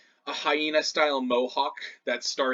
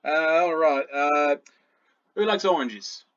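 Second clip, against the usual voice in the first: slightly raised goblin voice; goblin offering; 3 semitones higher, 4 dB louder than usual. Acted. Goblin jailer rummaging for oranges, lightly voiced casual offer.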